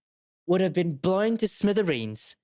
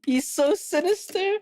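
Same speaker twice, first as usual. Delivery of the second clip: a touch of a villain voice, higher; attempted villain voice; 10 semitones higher than usual. Shown as a demonstration. Streamer admitting to a weak villain voice, lightly voiced villain. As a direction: try a sinister villain voice and miss. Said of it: "I don't have a good villain voice".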